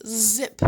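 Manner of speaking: "zip" slowly, leading from the Z sound; drawn-out word. Shown as a demonstration. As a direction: stretch "zip" for a beginning reader. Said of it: "A Z says z".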